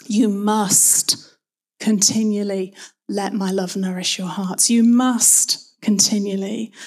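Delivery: "must" leaned on, with a pause after it; stress on MUST. Shown as a demonstration. Preacher emphasizing the next word of the verse, stress on "must". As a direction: press on "must", then carry on evenly. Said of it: "emphasize each word in turn".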